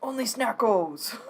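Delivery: giggling through the words; laughing cat voice. Pretend.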